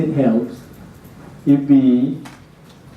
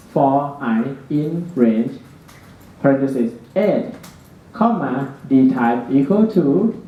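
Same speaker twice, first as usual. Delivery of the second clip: dictating. Shown as a demonstration. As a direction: spell out each symbol deliberately. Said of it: "type this line".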